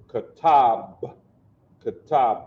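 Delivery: KATAB as ka-TAHB, closing on a bare b; soft b ending. Shown as a demonstration. Teacher showing soft ba in a name, KATAB ending on bare b. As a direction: end KATAB on b with no vowel after. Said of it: "That's the soft sound of the ba".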